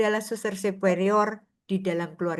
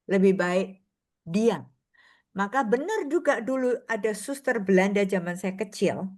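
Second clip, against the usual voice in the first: ordinary talk, nothing marked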